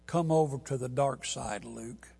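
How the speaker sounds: low menacing Vader line; low dramatic movie quote; movie villain line. Retold or imitated. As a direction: intone it darkly, fading out. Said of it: "And the line is".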